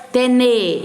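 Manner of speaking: tene with plain e, no diphthong; wrong form tene. Shown as a demonstration. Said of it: "eu não falo".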